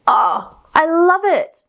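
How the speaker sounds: delighted squeal. Real, not acted. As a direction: gush over the yarn with real joy. Delighted by the new yarn.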